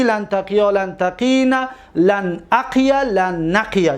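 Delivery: level-toned paradigm chant with drawn-out endings; conjugation recitation. Shown as a demonstration. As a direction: recite each verb form like a memorised table. (صرف فعل با لحن کشیده و یکنواخت)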